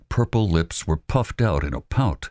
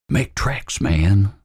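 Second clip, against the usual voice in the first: raised, louder urging; urgent; 5 semitones higher, 4 dB louder, much slower than usual. Acted. Albert to Robert Lee, urgent. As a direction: get moving now.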